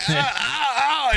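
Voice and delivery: high, yelped "ah, ah" grunts; imitated exertion grunts. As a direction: act out straining with short high noises. Demonstrates clumsy air-humping dance.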